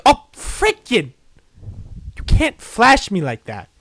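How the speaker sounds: jump scare laugh. Real, not acted. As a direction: yelp from a sudden fright.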